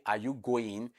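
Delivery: "Are you going" lifted at the end; yes-no question with "going" turning upward; rising tone. Shown as a demonstration. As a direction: raise the voice on "going". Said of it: "You say".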